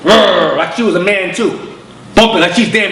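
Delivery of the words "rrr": mock growl. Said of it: "bumping chests with him".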